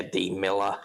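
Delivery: lightly voiced Aussie echo; understated Australian attempt; Australian accent. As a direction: drop the R like an Australian. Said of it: "maybe just do the Australian".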